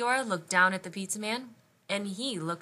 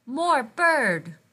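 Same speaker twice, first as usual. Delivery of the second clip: put-on loud, high toddler shout; excited baby cry; 5 semitones higher, 10 dB louder than usual. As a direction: cry it out like a thrilled little child. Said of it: "He cried".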